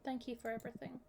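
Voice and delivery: soft, dripping with derision; sarcastic. Acted. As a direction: thank them with pure contempt. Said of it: "the most sarcastic thank you I can possibly manage".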